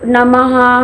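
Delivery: slow, drawn-out नमः; one breath per word. Shown as a demonstration. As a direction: let नमः stretch over its own breath. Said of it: "फिर आपने सांस ली".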